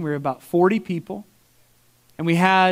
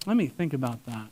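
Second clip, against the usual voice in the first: low and much softer, musing; pondering gentleman; 6 semitones lower, 9 dB quieter than usual. Retold or imitated. Imitating the gentleman recalling his last sin, low musing. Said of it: "He's like".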